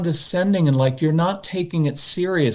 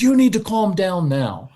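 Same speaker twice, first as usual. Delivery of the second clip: mock stern parent scolding; yelling parent; 4 semitones higher than usual. Shown as a demonstration. Parent showing the yelling tone that fails. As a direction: snap at the child to calm down. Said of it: "that yelling and screaming".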